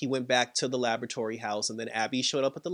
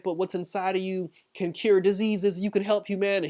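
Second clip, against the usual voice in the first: higher-pitched retold appeal; lightly voiced pleading, pitched up; survivor's plea; 5 semitones higher than usual. Survivor appeals to the creature, higher and pleading.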